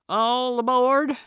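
high, loud boarding call; crying out. A narrator's reading. Woman in the paddle boat disguises her pain, crying out loudly. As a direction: sing out heartily to cover the pain. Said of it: "she cried, in an attempt to disguise".

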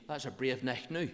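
casual Ulster Scots greeting; everyday Ulster Scots, "now" as "noo"; broad Ulster Scots. Shown as a demonstration. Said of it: "speak Ulster Scotch".

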